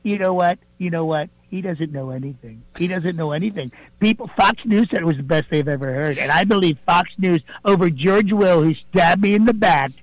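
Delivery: a fairly close Donald Trump impersonation, boastful. Acted. Impersonator calling the radio show as the president, Trump voice. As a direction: do Trump bragging to the host, leaning on believe me. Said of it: "not President Donald Trump".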